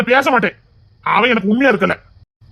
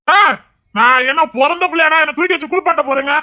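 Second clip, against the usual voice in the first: indignant protest; 6 semitones higher than usual. Acted. Drunk man objects to being bathed.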